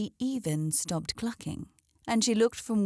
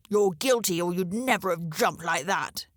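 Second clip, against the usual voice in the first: crow exclaiming. A narrator's reading. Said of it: "the voice exclaimed".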